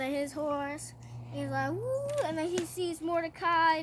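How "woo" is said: high, light whoop; mock celebratory woo. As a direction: whoop like a showoff on horseback. Haman celebrates on his horse.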